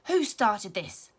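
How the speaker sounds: slow, loud cross demand; a furious teacher demanding answers; loud slow angry question; shouted. A narrator's reading. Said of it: "shouted out Missus Sanders".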